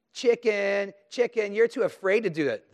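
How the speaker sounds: high, loud sing-song chicken taunt; mocking taunt. Preacher mimics bullies taunting a child, high loud mockery. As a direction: jeer at them like a schoolyard bully.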